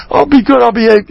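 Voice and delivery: high, meek promise; mock meek mother. Rabbi imitating a mother placating her kid, meek and high. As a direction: cave in like a cowed parent, hammed-up.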